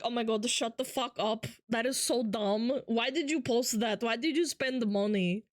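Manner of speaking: imitating a mock Hungarian accent. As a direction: do a generic Eastern European accent, scolding. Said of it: "Hungarian fucking accent".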